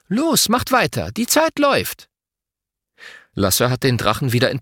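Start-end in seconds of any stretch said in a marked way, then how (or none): 0.1-2.1 high-pitched urgent cheering on; rallying call at normal volume; encouraging. A narrator's reading. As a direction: urge them on, pitch soaring. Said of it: "Mama ermuntert".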